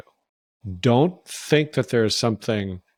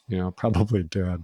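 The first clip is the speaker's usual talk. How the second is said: laughing while talking; 4 semitones lower, 3 dB quieter, faster than usual. Real, not acted. Laughing mid sentence.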